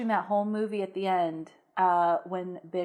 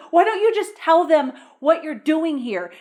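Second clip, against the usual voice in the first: laughing exasperation; 6 semitones higher, 5 dB louder than usual. Real, not acted. Laughing frustration at the character.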